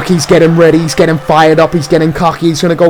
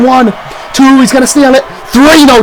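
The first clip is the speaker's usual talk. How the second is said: higher pitched count shout; rising urgency on the count; excited yelling; 6 semitones higher than usual. Real, not acted. Near-fall count, commentator yelling.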